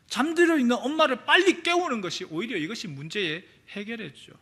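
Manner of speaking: ordinary delivery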